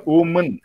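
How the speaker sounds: "Woman" with a reduced final vowel; schwa pronunciation. Shown as a demonstration. Trainer repeats the singular, schwa pronunciation. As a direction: say "Woman" as WU-mun. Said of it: "it is schwa sound there".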